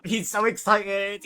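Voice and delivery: bright, eager gush about him; gushing excitement. A narrator's reading. Narrator gushing to viewers about Argus. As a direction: sell how thrilled he is.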